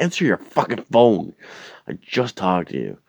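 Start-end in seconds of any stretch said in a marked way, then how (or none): 0.0-1.3 high, loud burst of frustration; exasperated yell. Retold or imitated. Caller fed up with friend not picking up, exasperated yell. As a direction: yell at the voicemail.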